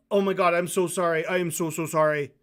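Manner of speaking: effusive, pleading apology; mock groveling. Host showing what groveling would imply, mock groveling. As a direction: pour out a hammed-up apology. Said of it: "groveling would imply, like".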